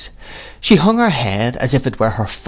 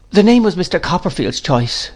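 lightly voiced, higher-pitched woman; meek mother; 8 semitones higher than usual. A narrator's reading. Mother explaining to Miss Betsy, meekly. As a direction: answer meekly in a raised pitch.

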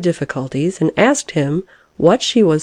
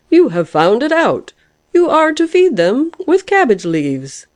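high, triumphant announcement; exulting; 9 semitones higher than usual. A narrator's reading. Lark revealing the answer to the caterpillar, exultingly. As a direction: proclaim it with rising delight. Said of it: "cried the lark, exultingly".

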